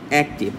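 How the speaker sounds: অ্যাক্টিভ split into two syllables, অ্যাক and টিভ. Shown as a demonstration. Teacher showing students syllables, অ্যাক্টিভ said in two distinct parts. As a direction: say অ্যাক্টিভ in two separate beats. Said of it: "যে কয় ভাগে ভাগ করে উচ্চারণ".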